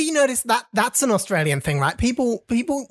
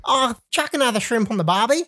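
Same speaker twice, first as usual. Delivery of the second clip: hammed-up Aussie accent; 3 semitones higher than usual. Shown as a demonstration. Host shows off to co-hosts on request, mock Aussie accent. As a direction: put on a cliché Australian accent. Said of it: "please do your Aussie accent for us".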